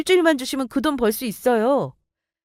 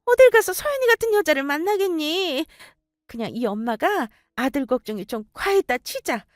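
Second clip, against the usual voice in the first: coaxing mother; 6 semitones higher than usual. Acted. Mother-in-law pleading sweetly.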